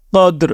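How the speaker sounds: قدر ending on a bare r, no vowel; final ra sounded alone. Shown as a demonstration. Teacher shows the pausal ending, قدر closed on a vowelless r. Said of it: "صرف را کی آخر میں آواز".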